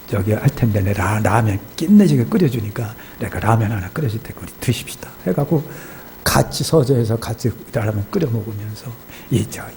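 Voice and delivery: ordinary delivery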